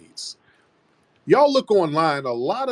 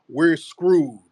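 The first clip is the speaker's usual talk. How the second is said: whispered; 3 semitones higher than usual. Real, not acted. Dire warning, sudden whisper.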